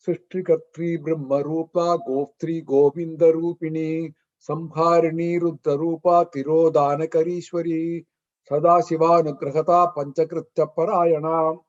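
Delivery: even, chant-like recital of a sloka; measured scriptural recitation; Sanskrit verse recitation. Acted. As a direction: recite sacred verse on a steady level pitch.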